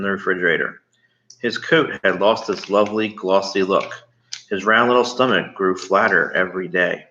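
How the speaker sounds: put-on reading a chapter aloud to a child; steady read-aloud narration; story reading. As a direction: tell it like a bedtime story. Reads the book aloud.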